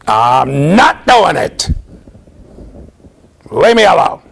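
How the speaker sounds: put-on slow, loud stubborn child; defiant toddler. Son refusing toilet training, slow and loud. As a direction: dig in like a two-year-old. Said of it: "That was it".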